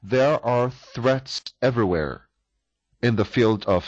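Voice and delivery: There are threats everywhere said slowly and carefully; slow model reading. Shown as a demonstration. Teacher reads model translation slowly to students. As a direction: model the sentence slowly for the class. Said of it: "无处不在".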